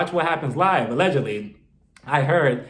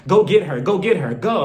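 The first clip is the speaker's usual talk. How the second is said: bossy command; 4 dB louder than usual. Retold or imitated. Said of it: "talking to her like".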